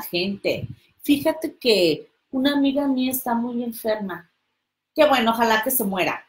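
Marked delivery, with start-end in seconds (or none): 4.9-6.2 fast cruel reply; callous. Retold or imitated. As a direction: rattle it off coldly. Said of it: "Así te lo dice". (respuesta cruel y rápida, sin empatía)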